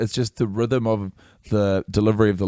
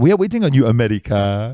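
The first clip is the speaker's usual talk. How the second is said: put-on high, loud, playful Caribbean MC-style accent. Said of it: "every week I hear that line".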